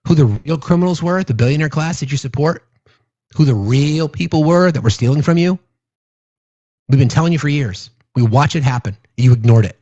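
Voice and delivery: ordinary talk, nothing marked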